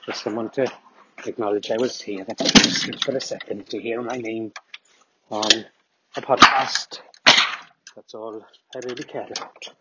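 lightly voiced Welsh fan wanting his name heard; Welsh accent. Brian thanks Richard for reading his email, in a light mock Welsh accent. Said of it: "Good Welsh accent though, mate".

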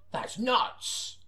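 breathy stunned hush; amazed whisper. Acted. Informant whispering his amazement to the detective. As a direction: whisper it in disbelief.

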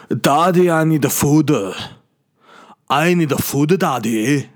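high-pitched put-on baby voice; needy, swooping mock-baby demand; imagined baby accent. Baby's imagined first words to daddy, high whiny accent. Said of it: "it is in that accent".

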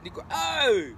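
high-pitched mock call-out; retold quick call. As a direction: imitate him calling out, pitched well up. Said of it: "he said it really fast".

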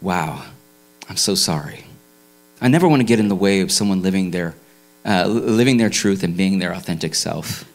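deadpan, sheepish cop voice; a lightly voiced officer; apologetic police officer. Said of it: "the officer looks at him and says".

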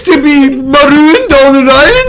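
high, hammed-up Scottish accent; Billy Connolly Scottish. Possessed Sean Bean greets the tribe in a high mock-Scottish accent. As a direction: play a cheeky Scottish comedian. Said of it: "Sean Bean's been possessed by Billy Connolly".

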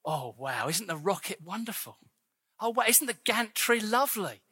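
lightly hammed-up gushing over the rocket; mock admiring. Preacher mocking a church that only admires its rocket, gushing. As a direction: play the smug admirer who never launches. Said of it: "looking at it and going".

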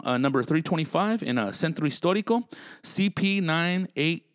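punchy podcast sponsor read. Real, not acted. Host plugging pest control and hotel sponsors, ad read. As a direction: sell it like a casual radio spot.

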